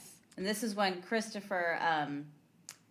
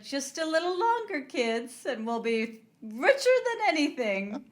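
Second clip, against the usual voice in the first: high-pitched mock Southern mother; put-on Southern accent; 8 semitones higher, 4 dB louder than usual. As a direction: coo it in a hammy Southern accent. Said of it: "why are you talking with a Southern accent".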